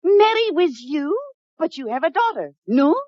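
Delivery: put-on French lady, a bit hammed-up; fake French accent. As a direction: play a fake French mademoiselle with a thick French accent. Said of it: "she has a decided French accent".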